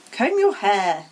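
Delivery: loud gruff bark; barked order. Acted. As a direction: bark the command. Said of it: "he barked".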